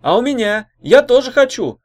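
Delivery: high, eager shout; loud clamouring girl. A narrator's reading. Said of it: "крикнула другая девица".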